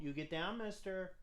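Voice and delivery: through gritted teeth. Real, not acted. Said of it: "The gritted teeth voice".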